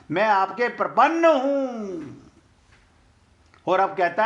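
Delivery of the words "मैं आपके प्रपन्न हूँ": खींचकर दोहराया समर्पण. Retold or imitated.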